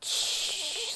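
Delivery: high quick hush from a mother; mom shushing. Retold or imitated. Mother hushing her staring son, quick high shush. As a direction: hush the child fast. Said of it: "her reaction was just like".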